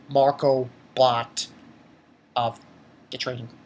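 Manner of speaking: low, broken-up hesitant answer. Retold or imitated. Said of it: "he's, like, hesitant to say".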